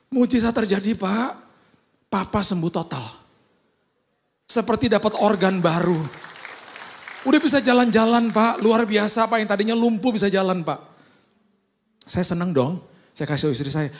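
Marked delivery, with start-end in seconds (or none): 0.1-10.8 high, loud, gushing; ecstatic caller. Retold or imitated. Caller raving to the pastor about the recovery, ecstatic. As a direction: pour out the good news, barely containing it.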